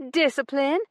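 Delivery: high, loud, rising outrage. A narrator's reading. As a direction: shout the word back at him. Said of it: "He winced at her increased volume".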